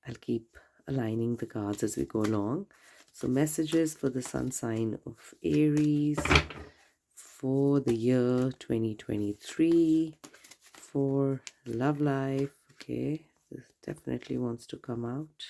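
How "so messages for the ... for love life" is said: slow, deliberate announcing voice; slow announcement. Acted. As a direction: announce each word slowly and grandly. Slow ceremonial reading announcement.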